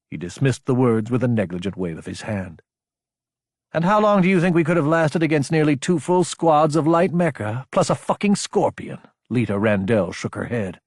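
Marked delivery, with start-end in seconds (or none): 3.7-9.0 high, rapid-fire challenge; incredulous. A narrator's reading. Officers arguing over a lopsided fight, incredulous. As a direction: throw the odds at him in disbelief. Incredulous retort dismissing her praise.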